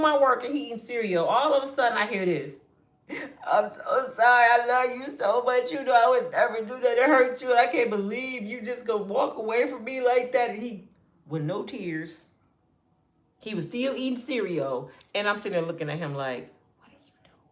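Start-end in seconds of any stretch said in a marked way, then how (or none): 3.5-10.5 fake crying brother. Brother faking tears on phone to his girlfriend, mock pleading. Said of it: "He act like he crying". 16.8-17.4 incredulous whisper across the table. Retold or imitated. Little sister whispering at her brother mid-call, stunned. Watching brother fake cry.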